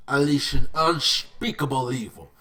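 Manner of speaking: loud, words pushed through clenched teeth; Aku impression through teeth. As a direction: growl it through your teeth like a demon lord. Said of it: "He talked with his teeth like this".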